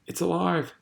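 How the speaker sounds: high-pitched triumphant cry; excited shout. A narrator's reading. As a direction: shout the good news, pitch leaping up. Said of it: "And then he shouted".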